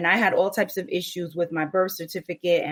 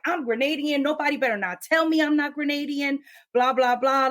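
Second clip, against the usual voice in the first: passionate podcaster; 8 semitones higher than usual. Retold or imitated. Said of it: "she was like".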